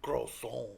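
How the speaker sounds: "croissant" with a French ending, the final t silent; affected French croissant. Shown as a demonstration. Correcting the co-host, affected French "croissant". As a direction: say "croissant" with a showy French lilt. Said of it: "You got to say it right".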